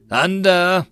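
high, loud call; yelled code word. A narrator's reading. Marine signalling from a side street, yelling. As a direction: yell it from down the street. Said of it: "A yell came from a side street".

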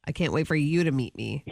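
hammed-up self-importance, low; mock pompous. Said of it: "Oh, you sound very pompous".

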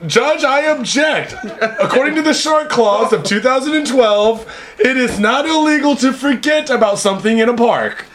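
laughing, hammed-up courtroom objection; mock lawyer.

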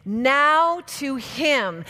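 slow, one word at a time; staccato. Shown as a demonstration. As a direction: punch each word slowly. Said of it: "we're just gonna say it one word at a time".

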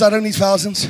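soft, low intimate declaration; hushed, solemn voice of God. Acted. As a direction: speak it close and quiet, as God.

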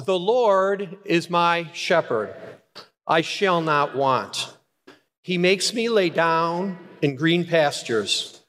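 slow, measured reading of "The Lord is my shepherd"; solemn psalm read to the congregation; slow scripture reading. Acted. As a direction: lead the psalm line by line, slowly. Congregation reads Psalm aloud.

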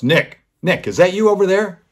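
high, loud call across the room; a big player calling out to a boy across the locker room. Retold or imitated. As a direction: spot him in the crowd and call out, delighted.

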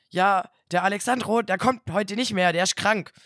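loud, matter-of-fact caller. Retold or imitated. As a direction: play the blunt caller. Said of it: "caller continues".

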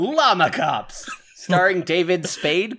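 big, drawn-out mock trailer voice; mock movie announcer. Co-host pitching a fake buddy cop movie, mock announcer.

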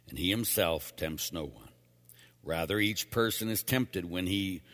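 measured, formal lector's reading; scripture reading. Acted. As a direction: proclaim the scripture evenly, with pauses. Reads scripture to congregation.

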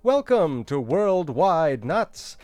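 host welcome. Acted.

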